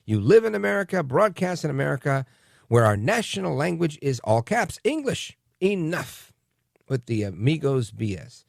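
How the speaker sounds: mock indignation, jumping high on English; mock angry listener. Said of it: "he went on to tell me".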